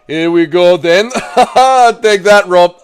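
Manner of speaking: put-on attacker voice, loud and laughing; R D R impression. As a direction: play a gleeful attacker dropping something heavy. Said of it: "Impression of R D R dropping".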